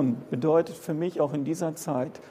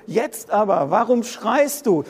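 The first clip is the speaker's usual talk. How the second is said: higher and louder, pressing the question; preaching it out; 4 semitones higher, 4 dB louder than usual. Acted. Preacher hurls the prophet's question at the congregation, higher and louder. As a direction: throw the prophet's question at them.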